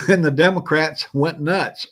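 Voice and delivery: laughing while speaking up. Real, not acted. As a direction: crack up as you tell it. Laughing at the news story.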